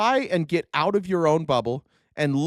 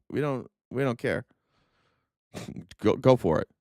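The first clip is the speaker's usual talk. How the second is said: mock China; 9 semitones lower than usual. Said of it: "China's just like".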